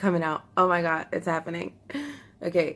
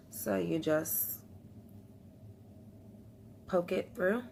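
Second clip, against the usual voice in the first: whisper; 8 dB quieter, slower than usual. Real, not acted. Slow whispered instruction.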